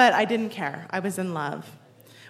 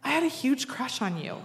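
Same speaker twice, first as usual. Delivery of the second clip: softer, lightly acted admission; imitated sheepish confession; 3 semitones higher, 5 dB quieter than usual. Man confessing an old crush in a bar, sheepish. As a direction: own up quietly, as if retelling it.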